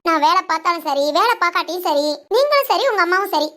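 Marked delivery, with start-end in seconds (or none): 2.4-3.5 raised voice. Acted. Wife confronts husband loudly.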